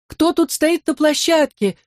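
put-on an old mother breaking down at the door; slow, high-pitched weeping lament; wailing lament. A narrator's reading. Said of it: "запричитала, заплакала она".

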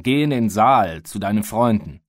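furious command to leave the room; shouting. Acted. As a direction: bark the order at the boy. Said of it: "schrie er den Kleinen an".

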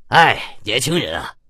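put-on knowing sigh over the young; sighing lament. A narrator's reading. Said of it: "再听两人在那儿叹息". (故作感慨地叹息)

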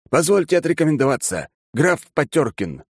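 lightly voiced aristocrat announcing his title; count introducing himself. Count formally introduces himself to narrator.

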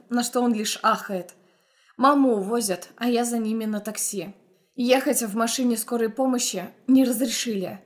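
ordinary delivery

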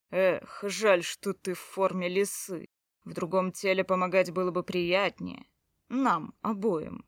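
slow, suggestive teasing; mocking. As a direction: tease her with a leer. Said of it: "Хакан продолжал издеваться". (издевательски, с намёком)

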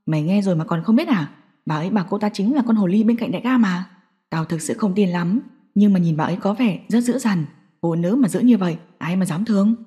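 low voice, trading office gossip; gossiping henchman. Acted. One thug gossips to another about Mai.

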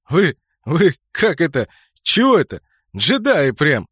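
high, loud, through suppressed giggles; stifled laughter. Acted. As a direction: fight back the laughter. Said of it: "прыскает со смеху".

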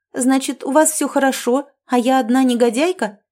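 a hammed-up offended sulk. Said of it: "надулась Нонна".

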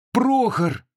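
high, glad cry of a name; joyful gasp. A narrator's reading. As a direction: gasp it out with relief. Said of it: "обрадованно ахнула Аксинья".

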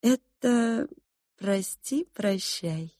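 lightly voiced cook mother. Mother to the girl, softly explaining. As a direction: explain gently to a child.

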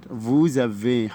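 vous avez with a z sound before avez, very slow; slow French liaison vous-z-avez. Shown as a demonstration. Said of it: "هننطقها زد".

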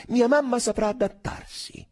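bitter undertone. A narrator's reading. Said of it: "con amaro sottinteso".

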